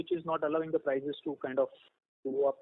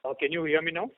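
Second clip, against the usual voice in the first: slightly raised voice, checking audibility; speaking up; 4 dB louder than usual. Real, not acted. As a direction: speak up a little to be heard. Raises voice after request to speak louder.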